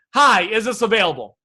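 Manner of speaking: ordinary talk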